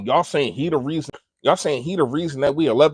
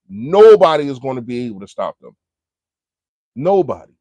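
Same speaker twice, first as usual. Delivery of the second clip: emphatic hype; 9 dB louder than usual. Real, not acted. Hyping the team.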